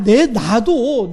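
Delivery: ordinary talk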